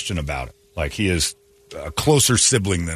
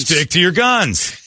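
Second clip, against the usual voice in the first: emphatic call; 8 semitones higher, slower than usual. Real, not acted. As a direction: slam each word home. Repeated as a rallying cry.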